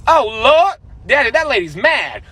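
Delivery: put-on a child pointing out the angry lady; daughter's voice. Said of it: "she goes".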